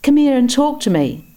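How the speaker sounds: high, friendly invitation; easy old man. A narrator's reading. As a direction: coax him over warmly. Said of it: "in an easy vernacular".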